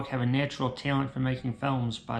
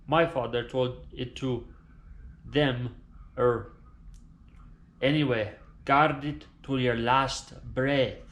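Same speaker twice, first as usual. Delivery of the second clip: dying Italian father. Acted. Dying father telling son the family secret, grave and hushed.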